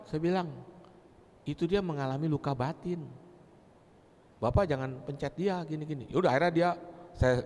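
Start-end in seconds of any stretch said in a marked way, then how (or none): 1.4-6.1 gentle explanation. Retold or imitated. Politely explaining to praying man.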